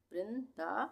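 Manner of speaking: वृंदा as "vrin-da" with a held n; वृंदा, n closing the first syllable; half n sounded. Shown as a demonstration. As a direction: let the half न ring in वृंदा before दा. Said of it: "आधे ना का उच्चारण आ रहा है".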